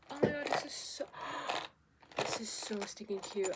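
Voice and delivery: cooing over something adorable; squealing over cute. Real, not acted. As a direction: gush like you just found treasure. Excited over cute item.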